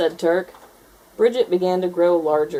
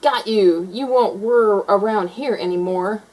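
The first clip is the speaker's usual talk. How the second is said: triumphant grab; 3 semitones higher, 4 dB louder than usual. A narrator's reading. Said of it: "and said".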